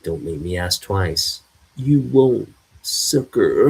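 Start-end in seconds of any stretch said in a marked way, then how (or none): 1.8-3.7 sneering shout. Acted. Thug fires on armored Superman.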